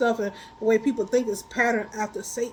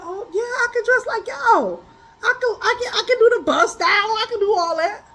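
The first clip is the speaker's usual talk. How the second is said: mimicking people; 9 semitones higher, 4 dB louder than usual.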